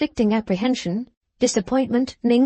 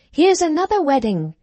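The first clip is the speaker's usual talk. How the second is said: higher, louder crowd calling out in glee; excited crowd shout; 7 semitones higher, 3 dB louder than usual. A narrator's reading. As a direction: yell it as a joke for the crowd. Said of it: "the populace cried out".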